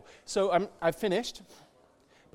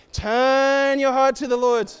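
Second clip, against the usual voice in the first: louder, slow and firm; loud preached command; 5 semitones higher, 9 dB louder, slower than usual. Real, not acted. Preacher urging the listener, a loud slow command. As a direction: order it out slowly.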